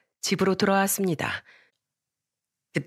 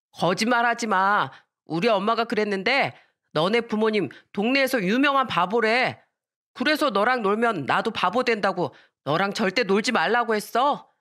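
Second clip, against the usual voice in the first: lightly voiced bratty child, a little higher; taunting boy; 3 semitones higher than usual. Neighbourhood boy mocks her parents, lightly acted childish taunt. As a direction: argue back like a teasing kid. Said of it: "같은 동네에 살던 남자애가".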